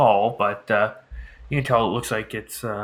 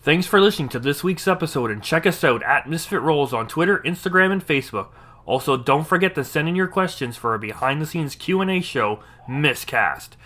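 podcast outro; 3 semitones higher than usual. Acted. Host thanks listeners at episode's end, lively outro read. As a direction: read it as a show host's closing plug.

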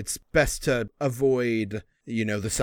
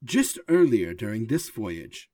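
higher, grand recital of a poem; robot reciting poem; 4 semitones higher than usual. Acted. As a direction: declaim it like a proud machine poet.

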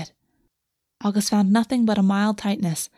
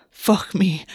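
hungrily. Acted.

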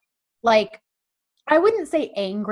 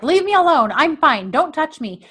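mock pushing away; 5 semitones higher, 4 dB louder than usual. She pushes him away.

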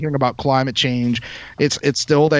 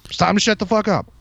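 smug know-it-all; 3 semitones higher than usual. Retold or imitated. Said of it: "they all just think".

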